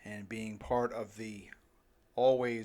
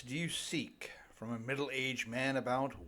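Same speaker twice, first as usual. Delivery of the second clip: whisper; 5 dB quieter than usual. Acted. Confiding aside to the gentlemen.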